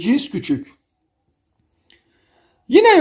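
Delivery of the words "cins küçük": cins küçük dropped soft, as in a tall-or-small game; "small" call. Shown as a demonstration. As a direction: sink cins küçük down, like calling "dwarf". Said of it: "Deve cüce oynar gibi".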